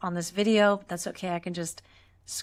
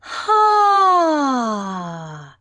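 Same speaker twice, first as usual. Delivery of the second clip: dramatic sigh; 5 semitones higher, 7 dB louder than usual. Shown as a demonstration. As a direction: heave out a dramatic, sliding sigh with sound. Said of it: "sigh it out with some sound, really dramatic".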